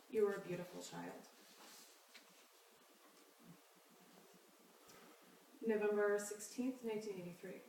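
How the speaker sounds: measured reading with long pauses between phrases; poetry reading. Acted. Poet reads dated pieces to an audience, measured poetry reading. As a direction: read it out evenly, letting each line settle.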